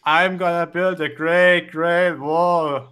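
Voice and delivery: slow, deliberate attempt at an American accent. Shown as a demonstration. Foreigner trying an American accent on request, slow, exaggerated American. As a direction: put on an American accent, drawing out the words. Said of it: "do your best American accent".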